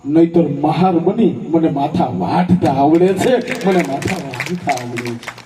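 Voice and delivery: poet warning the crowd in verse; fierce poem recital. Acted. Recites poem again, rising force.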